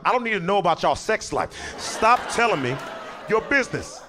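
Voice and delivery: cop losing patience; exasperated cop. Retold or imitated. Fed-up cop scolding.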